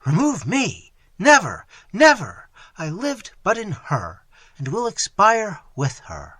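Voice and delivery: loud, high anguished cry; a mother's desperate refusal, loud and high. Acted. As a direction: cry out in despair. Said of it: "she cried".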